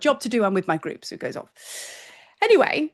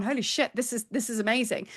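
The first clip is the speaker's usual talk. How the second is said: soft, awed "Holy shit, this is amazing"; hushed awe; 6 dB quieter than usual. Retold or imitated. To listeners, imitating a hushed amazed discovery. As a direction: breathe it out in wonder. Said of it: "you've gone".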